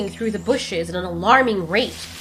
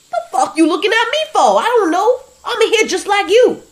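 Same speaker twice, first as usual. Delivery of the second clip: annoyed; 12 semitones higher, 7 dB louder than usual. Acted. Leo annoyed and afraid.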